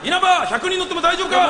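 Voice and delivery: commercial parody. Acted. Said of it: "物置か、".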